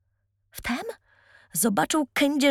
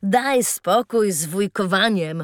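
jovial tramp voice; 2 semitones lower, 4 dB louder than usual. Acted. Tramp introduces himself.

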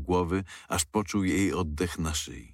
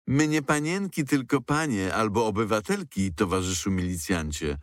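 ironic and angry; 4 semitones higher than usual. Acted. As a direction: bite back at the policeman with scorn. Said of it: "rzekła Marta z ironią, ale i złością". (Marta ironicznie i ze złością odpiera milicjanta)

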